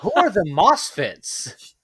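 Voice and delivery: slow, repeated through a laugh; laughing "Who are the Mosfets?". Real, not acted. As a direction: say it again, laughing at yourself.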